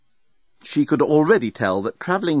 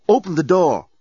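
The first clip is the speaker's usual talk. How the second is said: calling out; 7 semitones higher, 5 dB louder than usual. A narrator's reading. Dan knocking, calling through door.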